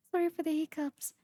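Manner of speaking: fast apology through a laugh. Real, not acted. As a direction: giggle it out quickly.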